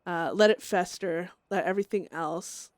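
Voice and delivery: lightly voiced menacing Chester; mild dark whisperer urging rot; Chester's voice. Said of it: "that's Chester talking right there".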